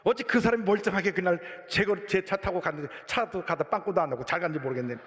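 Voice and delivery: mild mock complaint to God; retold grumbling prayer. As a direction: whine a little at God, reenacting it. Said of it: "하나님께 막 투정을 했죠".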